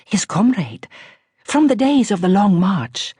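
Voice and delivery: wry aristocratic Persian-tinged English; lightly voiced grand Iranian lady, ironic; posh Iranian accent. A narrator's reading. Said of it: "tremendously posh voice with its just perceptible Iranian R".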